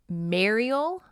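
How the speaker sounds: MARIEL said with an open MARE first syllable, rising questioningly; careful MARE sound opening "Mariel"; correct pronunciation. Shown as a demonstration. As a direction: try out "Mariel" as MARE-ee-el, checking it. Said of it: "I know that's not correct. It is".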